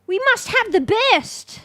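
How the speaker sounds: slow, high, booming mock-regal decree; grand proclamation. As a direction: proclaim it like a pompous king demanding luxury. Hammy boast about graphics settings.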